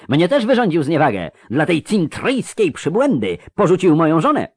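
high, overwrought complaint; theatrically aggrieved high voice; high, exalted. A narrator's reading. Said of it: "wysoki i egzaltowany".

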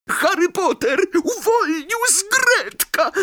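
very high squeaky elf calling out; hoarse elf cry. Acted. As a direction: cry out the freedom. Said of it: "zawołał skrzat ochrypłym głosem".

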